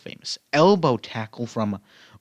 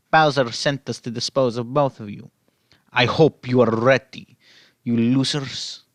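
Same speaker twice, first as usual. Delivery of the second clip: Russian Wario. Acted. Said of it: "No, Russian Wario".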